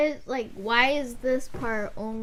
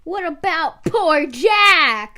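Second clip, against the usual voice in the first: big slow burly ghost, much louder; giant burly man; 6 semitones higher, 12 dB louder, much slower than usual. Acted. Friend repeats the ghost's line as a giant burly man. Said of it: "you're using the giant burly man voice".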